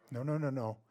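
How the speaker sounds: ordinary talk, nothing marked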